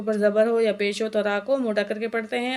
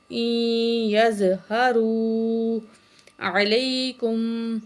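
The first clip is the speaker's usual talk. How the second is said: slow, drawn-out tajweed chanting; Quran recitation; much slower than usual. Shown as a demonstration. Teacher recites the verse for students, slow melodic chant. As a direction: recite slowly with full nasal hum.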